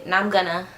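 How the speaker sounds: "Now I'm gonna" run together as "nama-gonna"; "Now I'm gonna" with "now I'm" squashed into "nam"; slurred words. Shown as a demonstration. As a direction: slur "Now I'm gonna" into one quick blob. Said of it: "I always say".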